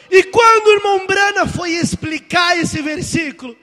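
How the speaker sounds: loud, high preacher's delivery; preaching shout. Real, not acted. Preacher introducing Brother Brana's words, loud. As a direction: keep the pulpit force up. Preacher keeps full force.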